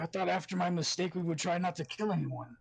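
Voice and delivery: flat, static monotone voice; deadpan monotone. Acted. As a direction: say it with zero emotion. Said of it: "very deadpan, static, monotone voice".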